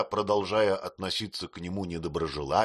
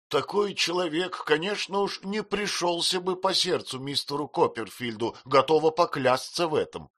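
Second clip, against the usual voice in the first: high, loud indignant rebuke; the maid stands her ground, raised and indignant; heated retort; 8 semitones higher, 3 dB louder than usual. Acted. Maid rebukes her mistress, high and indignant.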